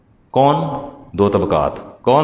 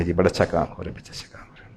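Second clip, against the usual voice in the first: sarcastic; 7 semitones lower, 10 dB quieter, faster than usual. Retold or imitated. Mocking elders approving dancing.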